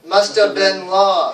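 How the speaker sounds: MUST and LOST loud and drawn out; slow model, leaning on must and lost; stress on must, lost. Shown as a demonstration. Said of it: "say it a little louder and say it a little longer".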